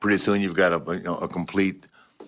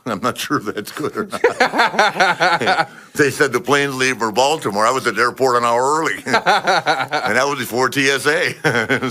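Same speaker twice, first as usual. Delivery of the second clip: laughing; 4 semitones higher than usual. Real, not acted. Laughing through airport story.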